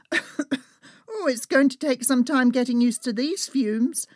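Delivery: high-pitched exclamation after a cough; exclaiming at fumes. Acted. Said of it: "I exclaimed as I screwed up my eyes".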